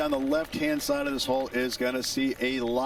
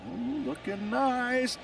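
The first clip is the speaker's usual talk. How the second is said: hopeful ooh; 11 semitones higher, slower than usual. Acted. Watching the putt roll.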